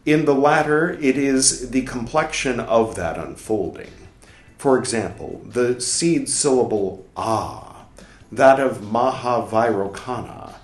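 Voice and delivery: measured, deliberate reading of a scholarly text; formal read-aloud. Acted. Reader reciting a dense book passage aloud, formal reading. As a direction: read it out clearly, pausing between phrases.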